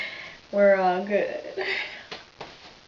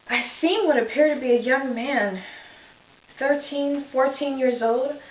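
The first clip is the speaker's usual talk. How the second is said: lightly voiced police officer, understated grief; a hint of a shaken officer reliving the scene; Reggie Flutie monologue. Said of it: "I will be playing Reggie Flutie".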